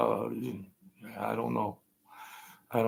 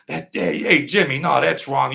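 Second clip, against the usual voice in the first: louder, taunting know-it-all voice; mock someone calling it wrong; mock smug debunker; 3 semitones higher, 6 dB louder than usual.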